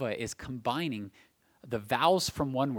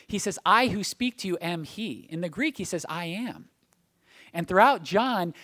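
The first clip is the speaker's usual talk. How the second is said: raised, emphatic pulpit delivery; preaching; 6 semitones higher, 6 dB louder than usual. Real, not acted. Preacher showing the congregation Jesus completes everything, emphatic proclamation. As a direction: preach it with building conviction.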